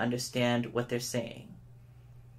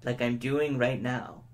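slow, deliberate, attention-grabbing; slow down to pull them in; 2 semitones lower than usual. Shown as a demonstration. Speaker grabbing the audience's attention, slow and deliberate. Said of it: "if I wanted to grab your attention".

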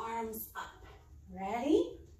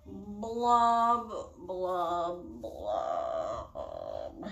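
blub, blub, blub, each one dropping lower in pitch; blub lower each time; 4 semitones lower, much slower than usual. Shown as a demonstration. Mom leading kids' yoga, blub sinking lower each time. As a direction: sink the pitch on every blub. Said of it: "get lower and lower every time".

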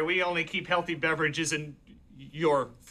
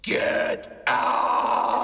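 high, drawn-out shout; not nice; 6 semitones higher, 4 dB louder than usual. Acted. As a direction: bellow GET OUT, stretching the words. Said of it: "How would you say that not nicely".

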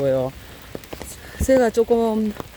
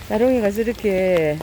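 ordinary talk, nothing marked

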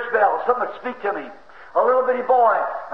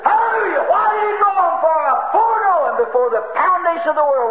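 much higher, ringing shout; shouting praise; 5 semitones higher than usual. Real, not acted. Preacher exulting to the church, shouting. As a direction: let it burst out.

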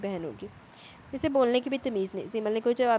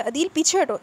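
loud, higher, stress on हटो; shouted warning; 6 semitones higher, 7 dB louder than usual. Acted. Salar shouting a warning to Adeel. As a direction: yell at him to step back. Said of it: "Salaar चिल्लाया।".

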